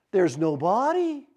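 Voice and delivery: slow, stretched-out disbelief; growing disbelief. Retold or imitated. Disciples finding the tomb empty, drawn-out disbelief. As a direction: draw it out as it sinks in.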